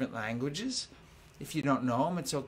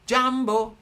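loud call; 8 semitones higher, 8 dB louder than usual. Shown as a demonstration. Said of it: "I'll sing 'em".

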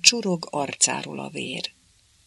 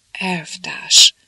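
desperate; 6 dB louder than usual. A narrator's reading. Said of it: "kétségbe esetten".

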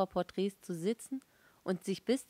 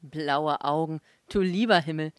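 scoffing exclamation; 2 semitones lower, 7 dB louder than usual. A narrator's reading. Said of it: "rief Herr K".

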